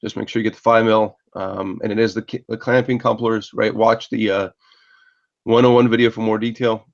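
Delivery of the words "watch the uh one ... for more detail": shivering. Real, not acted. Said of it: "Sorry, I'm freezing cold here".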